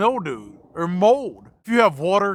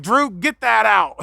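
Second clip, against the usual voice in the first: mom's order; 4 semitones higher, 5 dB louder, slower than usual. Retold or imitated. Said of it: "she's like".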